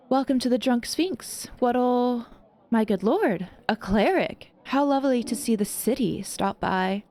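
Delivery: lightly voiced, welcoming barkeep; tiefling tavern keeper. Tiefling barkeep welcoming the cleric, lightly voiced. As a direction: greet the guest with easy charm.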